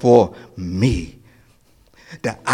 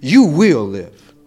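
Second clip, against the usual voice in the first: voicing God; 9 semitones higher, 5 dB louder than usual. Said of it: "then God says".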